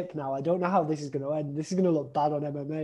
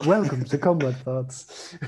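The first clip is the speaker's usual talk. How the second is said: imitating a smooth podcast host; sultry narrator; slower than usual. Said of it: "It's the sultry voice for the introductions".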